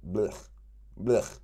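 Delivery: short, throaty "blech" noise; dismissive blech. Shown as a demonstration. Reader waving off obstacles as nothing, dismissive blech. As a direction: toss out a quick blech, twice.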